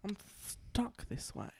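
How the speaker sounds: stuck in a voice. Pretend. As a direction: stay stuck in the silly voice. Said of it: "Imagine if I got stuck like that".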